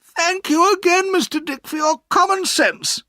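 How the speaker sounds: put-on high, cheerful old-lady voice; aunt, happily. A narrator's reading. Aunt thanks Mister Dick, high and pleased. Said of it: "said my aunt happily".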